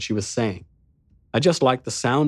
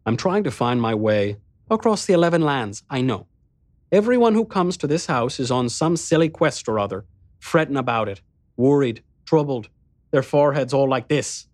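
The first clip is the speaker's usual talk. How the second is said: 1 teasing Hamarta; 3 semitones higher than usual. Acted.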